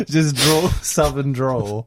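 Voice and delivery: very slow mock Southern US drawl. Shown as a demonstration. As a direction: stretch it out in a playful Southern drawl. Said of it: "I'd love to hear a southern pilot".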